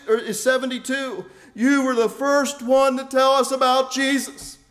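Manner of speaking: ringing letter read from the pulpit; reading the letter aloud. Retold or imitated. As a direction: share the old man's happy news. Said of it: "Mister Sampson wrote, and I quote".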